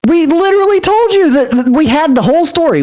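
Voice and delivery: high-pitched, indignant reminder; exasperated. Acted. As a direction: protest that they were already told. Exasperated at being asked what was told.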